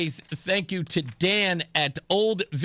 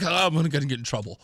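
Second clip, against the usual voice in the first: quick words through a laugh; laughing worry; 3 semitones lower, faster than usual. Retold or imitated. Host retelling his worry about his wife, laughing fast. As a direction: laugh it out fast, mock nervous. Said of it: "I was like".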